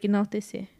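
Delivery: "enaltecer" in Spanish pronunciation, asking; Spanish word. Real, not acted. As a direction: say "enaltecer" with Spanish sounds, searching for the English word. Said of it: "how do you say, like".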